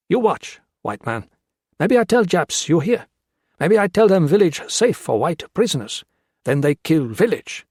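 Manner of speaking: high, loud broken-English threat; menacing guerrilla. Acted. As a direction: lean in and threaten the white man.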